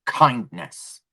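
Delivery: measured, pausing before the last word; retold stern face-off; deadpan demand. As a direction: state it evenly and deliberately. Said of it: "I looked her dead in the face".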